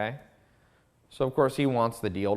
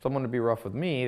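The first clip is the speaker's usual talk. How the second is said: surprised Justin; 5 semitones higher than usual. Retold or imitated. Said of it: "Justin's like".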